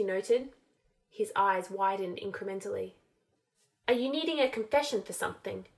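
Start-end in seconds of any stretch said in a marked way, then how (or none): 3.9-5.7 careful drawl. Acted. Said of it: "in a careful drawl".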